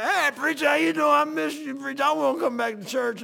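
high, loud impression of an eager churchgoer; imitating excited congregant. Odd congregant begs the preacher to let him back, hammed-up eager. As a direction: mimic a slobbery, over-eager man hailing the preacher.

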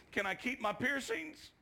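put-on high little girl's plea; imitated girl's question. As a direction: imitate a girl timidly asking permission.

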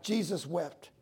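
quiet, grave recital; understated reverence; solemn weight. Shown as a demonstration. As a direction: let the weight of the verse sink in. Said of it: "the impact behind that verse".

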